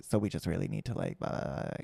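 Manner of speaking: hushed, breathy, creaky vocal fry, near whisper. Imitating a coworker who slips into it in meetings, vocal fry. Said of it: "she'll just fall into like a vocal fry".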